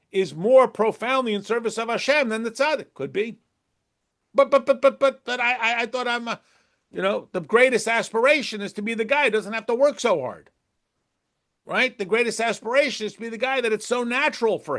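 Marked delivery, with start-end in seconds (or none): 4.3-10.5 flustered objection. Retold or imitated. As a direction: sputter in disbelief.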